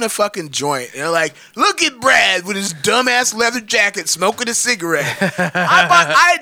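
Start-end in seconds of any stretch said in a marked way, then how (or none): 1.6-5.2 higher, drawn-out retold taunt; mock jeer. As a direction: imitate friends poking fun, slowly. Retelling friends' jeering remark.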